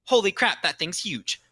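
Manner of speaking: high, amazed mock gasp at a huge item; jaw-dropped mock astonishment; holy crap surprise. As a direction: react like you've just seen something enormous. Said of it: "It's like".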